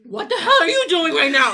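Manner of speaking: laughing in disbelief; loud, high laughing shout. Real, not acted. Friend acting oddly beside her.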